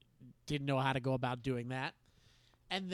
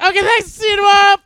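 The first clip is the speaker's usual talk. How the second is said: higher, louder, rushed sign-off; hasty goodbye; 20 dB louder than usual. Retold or imitated. Boy ending the call with his crush, rushed. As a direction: rattle it off and escape.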